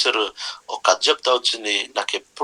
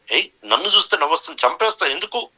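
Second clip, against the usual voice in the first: fast, higher, hammed-up menace; mock lion threat; 5 semitones higher, faster than usual. Lion threatens the pig for laughing at him, fast mock fury. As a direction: rattle off the threat like an offended king.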